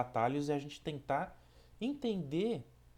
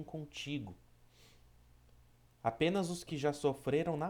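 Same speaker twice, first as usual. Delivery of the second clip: measured, emphatic reading of a spiritual message; solemn recitation with firm phrase openings; devotional reading. Acted. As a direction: read each maxim deliberately, pausing between phrases. Reads a devotional text aloud.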